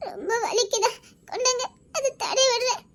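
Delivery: tearful laugh. Acted. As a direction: ask gently while laughing through tears. Wife tending wound, tearful laughter.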